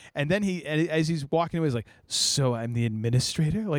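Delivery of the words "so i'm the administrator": hopeful, expectant tone. Retelling a villain's line after Vader nearly chokes him: imitating Krennic's hopeful tone. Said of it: "he even has this hopeful tone".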